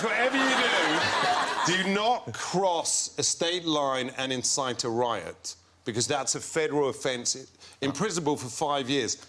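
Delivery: put-on measured English lawyer's accent; retold advice in an English accent. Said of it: "he's gonna be English".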